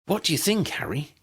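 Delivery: eager, bright question up high; Ginny keen for Harry's answer; excited. A narrator's reading. Ginny asking Harry at the table, excited. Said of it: "She sounded excited".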